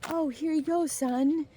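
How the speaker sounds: high, hammed-up fatherly voice; mock dad voice. Dad giving the baseball to his son, in a hammed-up high voice. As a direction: play the proud dad handing over the ball. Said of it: "he's all like".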